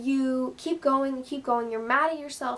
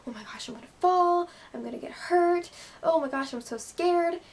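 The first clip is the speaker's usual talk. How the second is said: higher-pitched pretend fretting; mock panic; 5 semitones higher than usual. Gymnast fretting before attempting the skill, mildly mock-scared. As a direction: imitate a nervous athlete, lightly hammed up.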